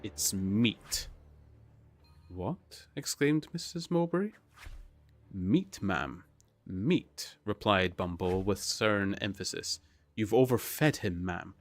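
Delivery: reading a novel aloud with lightly voiced characters; steady read-aloud narration with character lines; story narration. Reads Oliver Twist aloud.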